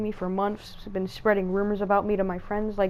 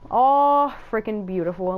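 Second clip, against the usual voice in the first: sarcastic dismay; 5 dB louder, slower than usual. Real, not acted. Internet shuts off mid-game.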